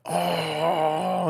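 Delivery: long drawn-out "oh" of mock distress; mock stressed groan. Imitating people a day late on car payments, mock groan. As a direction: imitate a stressed-out person moaning. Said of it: "they're fucking stressed out".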